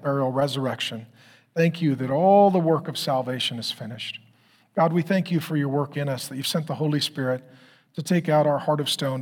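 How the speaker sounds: calm, measured pastoral prayer; closing prayer. Acted. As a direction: pray over the congregation steadily.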